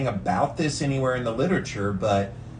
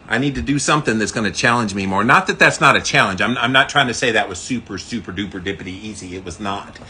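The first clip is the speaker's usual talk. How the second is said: in ice cold water; 3 semitones lower, 4 dB louder than usual. Real, not acted. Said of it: "I'm still very cold".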